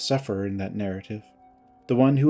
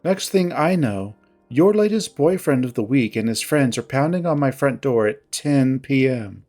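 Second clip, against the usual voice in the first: mildly curt, controlled grievance. Acted. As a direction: recount the betrayal with restrained reproach. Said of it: "her tone curt".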